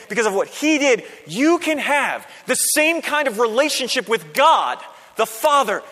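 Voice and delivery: high, emphatic preacher's voice, building in conviction; forceful phrases, each one punched; impassioned preaching. Real, not acted. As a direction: proclaim it to the whole congregation.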